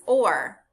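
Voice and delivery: "or" said as one isolated sound, as in fort; r-controlled vowel sound. Shown as a demonstration. Teacher demonstrates the sound of O R, r-controlled vowel. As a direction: sound out "or" on its own. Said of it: "the sound is".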